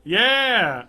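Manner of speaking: sudden loud high yeah; excited yell. Real, not acted. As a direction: blurt it out big. Excited shout after joke.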